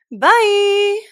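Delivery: loud, high, bright goodbye; excited shout. Real, not acted. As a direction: call out bye loudly. Cheery sign-off shout.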